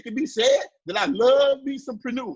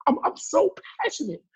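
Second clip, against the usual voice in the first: mock gushing entrepreneur; 5 semitones higher than usual. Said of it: "And they say".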